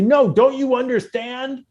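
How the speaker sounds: high, slow, pleading put-on voice; mock singer plea. A famous singer begging rap fans to listen, high slow mock plea. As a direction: whine it like a hammed-up begging folk singer.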